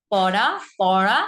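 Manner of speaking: "পড়া" first with a light tapped r, then a pressed retroflex one; tap-then-flap contrast. Shown as a demonstration. Teacher drilling the two r sounds, contrasted. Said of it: "পার্থক্য কিন্তু অবশ্যই আছে".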